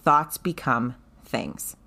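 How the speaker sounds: slow quote. Retold or imitated. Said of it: "And she said".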